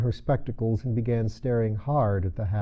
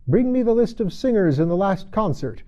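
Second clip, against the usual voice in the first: Queen voice; 9 semitones higher, 6 dB louder than usual. Acted. Queen orders officer.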